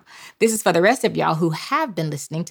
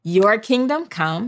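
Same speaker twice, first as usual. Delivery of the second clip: slow call to repeat; 3 semitones higher, slower than usual. Shown as a demonstration. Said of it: "I need for you to say".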